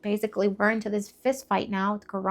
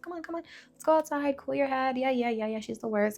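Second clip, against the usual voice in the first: sweet talking; 3 semitones higher, 5 dB quieter than usual. Retold or imitated. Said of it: "sweet talking my dad".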